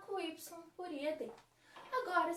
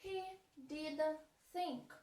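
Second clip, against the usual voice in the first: very slow, clear model sentence; slow classroom example read; much slower than usual. Shown as a demonstration. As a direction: lay out He didn't think word by word. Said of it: "Voltei com ele pra primeira".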